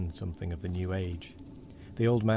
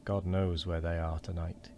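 quavering; 3 semitones lower, 4 dB quieter than usual. Acted.

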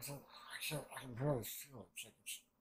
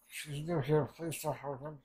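mock pleading, pitched up and louder; acted plea; 3 semitones higher, 5 dB louder than usual. Retelling someone begging mercy for the newcomer, urgent plea.

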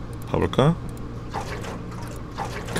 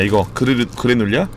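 usual speaking voice

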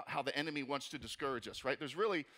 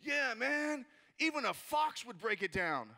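eager sidekick; 6 semitones higher, slower than usual. Pretend. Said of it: "Tobiah is like".

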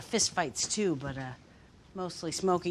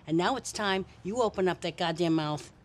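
tough cop. Acted. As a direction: lean in and threaten like a hard cop. Cop interrogating, bad cop.

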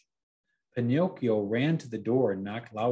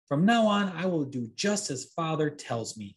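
put-on boy voice; 6 semitones higher, 3 dB louder than usual. A narrator's reading. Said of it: "he said".

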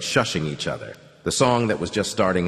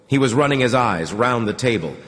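plain reading voice

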